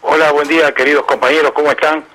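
hoarse, raspy morning voice; rough, gravelly throat this morning; voz aguardentosa. Real, not acted. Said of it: "Qué voz aguardentosa que tiene hoy". (voz ronca y aguardentosa)

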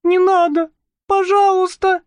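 put-on high, pleading girl's cry; desperate plea. Marusya begging the man to stop, desperate. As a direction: beg him not to.

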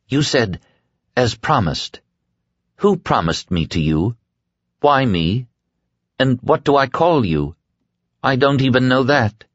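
a lightly voiced young woman, pressing him; Nadine's voice. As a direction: Nadine quotes his words back and demands answers. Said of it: "Nadine questions him".

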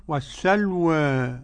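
"والسلوى" with final vowel between aa and e; taqlil, slightly tilted ending. Shown as a demonstration. Teacher demonstrates Abu Amr's reading, "والسلوى" with taqlil. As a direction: tilt the last alif of "والسلوى" slightly. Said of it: "وقرأ بالتقليل فقط أبو عمرو".

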